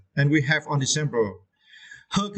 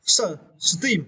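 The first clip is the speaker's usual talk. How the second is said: esteem slow, leaning on teem; slow model of the stressed syllable in esteem; 3 semitones higher than usual. Shown as a demonstration. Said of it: "stress the syllable".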